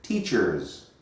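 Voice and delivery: teachers, slow, with a clear hissed final S; final S emphasized. Shown as a demonstration. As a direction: make the S of teachers ring out. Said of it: "Not teacher, teachers".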